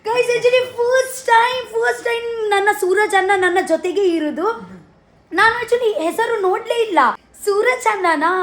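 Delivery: high, eager burst of real excitement; telling viewers she's paired with Suraj, excited. Real, not acted. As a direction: gush it to the viewers, thrilled.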